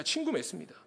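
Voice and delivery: a quiet echo of 친구 맺습니다; preacher softly repeats the point for the congregation. Shown as a demonstration. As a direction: drop the volume and repeat 친구 맺습니다.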